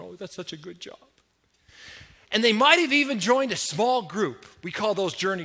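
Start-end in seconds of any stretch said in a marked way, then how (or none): 0.0-1.0 soft, murmured praise; lightly acted quiet admiration; hushed approval. Group praising a newcomer's prayer, softly approving.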